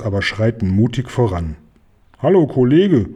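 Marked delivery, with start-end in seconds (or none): 2.2-3.1 calling out. Acted. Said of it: "ruft Oskar".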